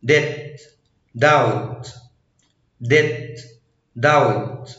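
"debt" said as "det", no b; "doubt" said as "dowt", B silent; silent B before T. Shown as a demonstration. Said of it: "لا ينطق حرف بي".

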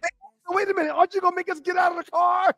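high, squeezed incredulous question; retold bafflement. Passenger asking cops about getting out of the car, retold bafflement. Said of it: "I look at them like".

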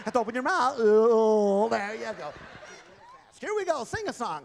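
high, loud puppet voice with gruff no; dummy voice for Jake. Acted. Ventriloquist voicing Jake's dummy, high and loud. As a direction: ventriloquist bit with a stubborn dummy.

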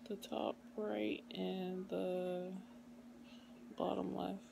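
slurred numb-mouth speech after surgery; groggy from anesthesia. Real, not acted. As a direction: talk through a numb, swollen mouth. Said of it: "Just had my wisdom teeth taken out".

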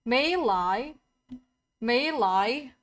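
"Melee" as MAY-lie, lilting upward. Shown as a demonstration. Streamer learning the new pronunciation, "Melee" as careful MAY-lie. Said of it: "So it's melee".

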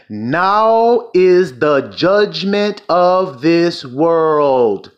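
very slow, stretched-out declamation; weighty, drawn-out preacher's reading; scripture proclamation. Acted. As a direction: draw every word out for the congregation. Proclaims verse after calling for attention.

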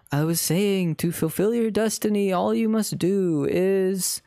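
measured British ghost voice, slow at the end; British accent. Acted. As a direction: speak like a grave British spirit. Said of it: "wait, he's British".

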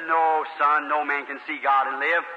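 put-on a stern old preacher laying down the law; solemn pastor. Pastor's answer, voiced.

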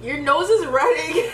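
laughing while teasing. Real, not acted. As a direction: giggle through the words. Laughing at him.

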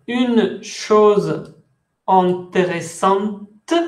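une chose intéressante said slowly, with the final t of intéressante clearly sounded; slow teacher model of "une chose intéressante"; careful French. Shown as a demonstration. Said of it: "Se dice".

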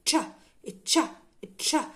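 "تشا" said as an English ch plus a short a; ch sound demo. Shown as a demonstration. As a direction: model "تشا" as separate ch syllables. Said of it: "السي والاتش بتنطق تشا".

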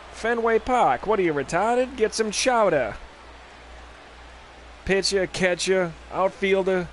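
put-on half-hearted Boston accent riff; mock Bostonian accent, lightly done. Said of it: "the Bostonian accent".

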